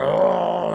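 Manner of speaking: long drawn-out bear roar. Retold or imitated. Comic imitating a big bear at the campsite, roaring.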